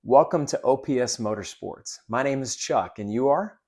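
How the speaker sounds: friendly welcome, lift on "you are?"; genuine, confident greeting. Shown as a demonstration. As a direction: greet with authority, then rise on "are". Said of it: "this is what it's gonna sound like".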